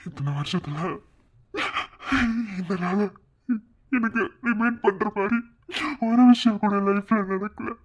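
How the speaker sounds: crying as he begs forgiveness, pitch climbing; tearful pleading. Acted. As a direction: plead through sobs, pausing for breath. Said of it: "அழாத, சத்யன்". (அழுதுகொண்டே மன்னிப்பு கேட்கும் குரல்)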